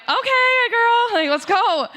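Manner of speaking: playful pep talk to a friend; mock eager urging. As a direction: chirp it out to get her moving. Urging friend along in retold story.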